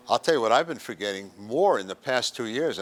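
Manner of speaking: ordinary talk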